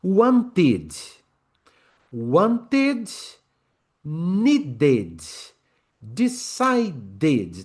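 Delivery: "Wanted, needed, decided" syllable by syllable; deliberate beats, want-id, need-id, decide-id; extra syllable drill. Shown as a demonstration. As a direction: sound a full "id" at the end of "Wanted". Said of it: "Então, want fica".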